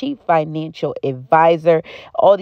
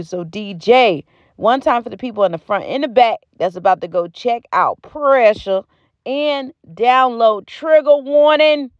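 hype call-out; 5 semitones higher than usual. Real, not acted. Hype outro calling the DJ.

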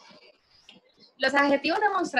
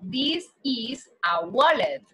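"This is a wallet" said slowly for students; slow it down for learners; slow teacher model; slow model sentence; slower than usual. Shown as a demonstration. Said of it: "Entonces digo".

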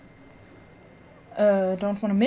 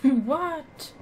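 amused laughing "what?", pitched up; laughing disbelief; 7 semitones higher, 4 dB louder than usual. Real, not acted. Player laughs at game line.

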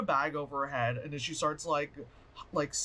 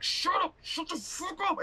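mock shriek; 13 semitones higher than usual. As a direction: shriek at the screaming kid to shut up. Killer voiced yelling at kid.

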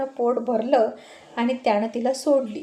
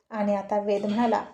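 ordinary delivery, nothing marked

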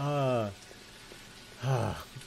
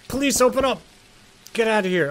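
mock cop shout; 10 semitones higher, 6 dB louder than usual. Pretend police banging door.

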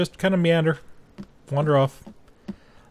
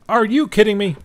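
disbelief; 8 semitones higher, 4 dB louder than usual. Real, not acted. Fire fails to light.

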